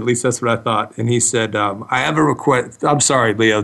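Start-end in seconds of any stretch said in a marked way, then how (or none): 1.9-2.8 Russian accent impression. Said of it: "I'm doing an impression of you".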